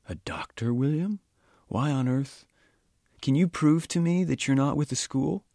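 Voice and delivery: put-on an elderly man surprised by the odd accusation; puzzled old Sikh.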